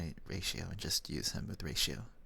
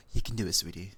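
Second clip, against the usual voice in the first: encouraging; 5 dB louder, faster than usual. Real, not acted. Cheering a chatter on.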